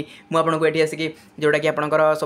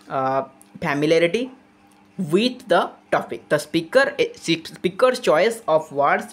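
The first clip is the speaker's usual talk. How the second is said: slow, deliberate reading of an English text; reading out definition; much slower than usual. Acted. Teacher reads the textbook definition to students, slowly. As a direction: spell it out slowly for the class.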